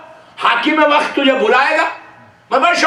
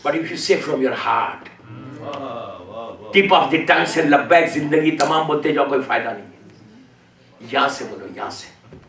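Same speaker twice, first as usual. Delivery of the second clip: soft heartfelt plea; 14 semitones lower, 6 dB quieter than usual. Acted. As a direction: drop to a near whisper on یہاں سے. Urging to speak from the heart. (دل سے دھیمی سرگوشی جیسی التجا)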